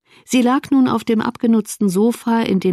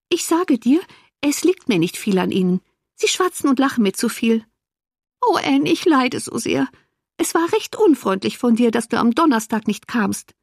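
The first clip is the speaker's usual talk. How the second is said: higher-pitched, wounded self-pity; complaining invalid sister; 5 semitones higher than usual. Acted. Invalid reproaches her sister for not coming Thursday, plaintive.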